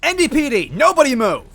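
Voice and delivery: high, loud police call; crying out. A narrator's reading. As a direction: burst in commanding. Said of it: "Goombella cried".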